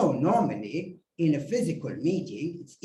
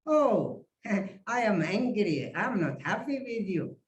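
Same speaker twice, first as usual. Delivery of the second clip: unconvincing anger. Shown as a demonstration. Coach showing how not to sound angry, unconvincing anger. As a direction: claim anger with no force behind it. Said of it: "That's not angry".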